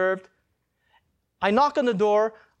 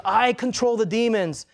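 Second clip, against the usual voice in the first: slow, higher retold declaration; angry voice; 4 semitones higher, 3 dB louder than usual. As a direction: imitate an angry boast, mildly. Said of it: "he says out this angry voice".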